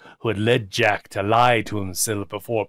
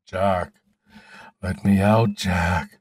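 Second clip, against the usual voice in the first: desperate plea; 3 semitones lower, 3 dB louder, much slower than usual. A narrator's reading. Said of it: "as if he were in the grip of desperation".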